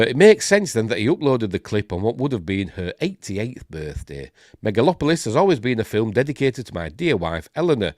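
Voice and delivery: projected news-reading voice; article read-aloud. Acted. Host reading Coppola's post to viewers, article read-aloud. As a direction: read the report out clearly.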